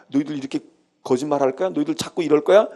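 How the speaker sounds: a touch of a stern scolding, quickening at the end; understated rebuke of the wicked; mock scolding. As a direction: lightly scold the liars as God would. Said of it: "이러고 야단치시면".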